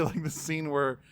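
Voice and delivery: ordinary talk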